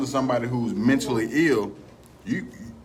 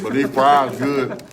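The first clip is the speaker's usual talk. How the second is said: deep voice; 7 dB louder, slower than usual. Pretend. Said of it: "Deep, deep, deep".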